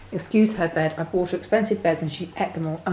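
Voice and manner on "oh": usual speaking voice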